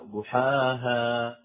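ضحاها with a clear open aa in ها; careful model of open ضحاها. Shown as a demonstration. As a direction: open the final vowel of ضحاها, neither dark nor tilted. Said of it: "يعني يجب أن تفتح".

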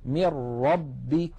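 من ربك drawn out as "mir-rabbik", nun merged into a doubled ra; full assimilation into ra; slow recitation. Shown as a demonstration. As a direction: swallow the n into the r. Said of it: "النون ليس عليها حركة".

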